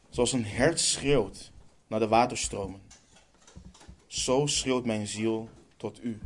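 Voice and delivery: measured psalm reading with weighty pauses; solemn scripture reading. Acted. Preacher reads a psalm to the congregation, solemn and measured. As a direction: read it out phrase by phrase, stressing key words.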